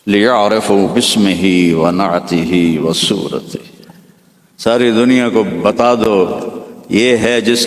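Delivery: slow, solemn Arabic recitation; measured Quranic-style chant; voice from the fog. Acted. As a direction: intone it like a heavenly decree. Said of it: "اس fog کے اندر سے آواز آئی".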